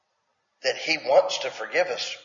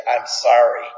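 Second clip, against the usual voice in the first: grudging sorry; 3 semitones lower, 4 dB louder than usual. Retold or imitated. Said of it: "teaching their kids to say".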